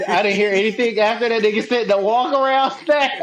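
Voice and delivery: real tearful laughter breaking into the words; crying with laughter. Real, not acted. Co-host apologizing for losing it over the walk around snack, crying with laughter. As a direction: struggle to talk through helpless laughing. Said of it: "I'm crying real tears".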